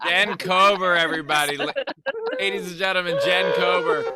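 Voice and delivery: booming host introduction; announcer voice. Acted. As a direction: announce her like a showman. Introducing the guest on show.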